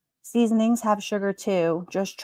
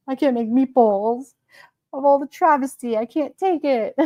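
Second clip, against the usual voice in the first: a higher, hammed-up lament; mock despair; 5 semitones higher than usual. Lamenting the meatball ban to viewers, hammed-up despair. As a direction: overplay the tragedy for laughs.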